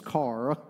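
"car" drawn out into two syllables, Eastern Carolina style. Shown as a demonstration. Preacher showing local speech, car in two syllables. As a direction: stretch "car" so it splits into two beats. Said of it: "two syllables".

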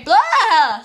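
loud, high burst of silliness; hyper shout. Real, not acted. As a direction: blurt it out, wired on soda. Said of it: "Sorry, I'm so hyper".

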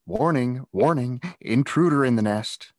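high, loud sing-song warning; mock alarm call. Kids jeering at the new boy, mock alarm. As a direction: sound the alarm like a sentry ant.

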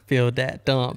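hammed-up South Louisiana Cajun; mock Cajun drawl; bad Cajun accent. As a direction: put on a terrible Cajun accent. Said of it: "the worst South Louisiana Cajun accent".

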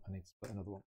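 dropped to a near-whisper mutter; muttered to himself. Real, not acted. Splitting coins, repeating it to himself under his breath. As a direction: mumble it under your breath. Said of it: "repeats the line".

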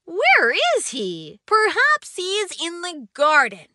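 a lightly voiced curious boy looking for his friend; wondering Ollie. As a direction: wonder aloud where your friend went. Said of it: "Ollie wondered".

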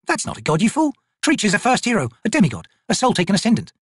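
high-pitched scornful correction; sneering. A narrator's reading. Corporal corrects the trader about his god, sneering. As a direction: put the fool right with a sneer. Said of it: "Picker sneered".

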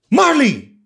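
high, loud story shout. Acted. Teacher voicing the friends' shout from the story, shouted. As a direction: call the name out at full pitch. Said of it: "we shouted".

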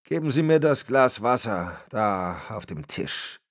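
put-on rough, breaking old voice; mild croak of a tired old man. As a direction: croak it out, voice giving way. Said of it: "krächzte er".

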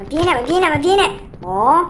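high yell, don't run away; excited yell. Real, not acted. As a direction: shout after the fleeing doll. Yelling while chasing Slappy.

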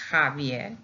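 "Javier" with a breathy Spanish j, ha-VYER; Spanish J sound. Shown as a demonstration. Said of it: "in the correct way with a J".

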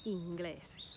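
"Inglés" with weight on "glés"; last-syllable stress. Shown as a demonstration. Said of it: "emphasis is on the last syllable".

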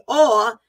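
"awe" given extra weight; stress on awe. Real, not acted. Foretelling God's power falling, "awe" stressed. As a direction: dwell firmly on the word "awe". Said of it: "that's capitalized".

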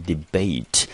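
"debate" said as a careful model word; pronunciation demo. Shown as a demonstration. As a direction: model "debate" clearly for learners. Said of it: "我们念成". (示范念debate，咬字清楚)

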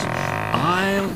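high, halting gasp bursting out at the end. A narrator's reading. Exhausted engine just reaching the station, halting high gasp. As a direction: break it with pauses, then push out the finish. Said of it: "he gasped between the clanks".

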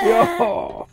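high shouted yes. Real, not acted. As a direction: yell it out sharply. Yelling at monster.

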